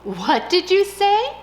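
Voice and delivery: high, slow, puzzled cricket; a cricket who can't hear over music; cricket asking. Acted. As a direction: cricket cupping an ear. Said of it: "asked the cricket".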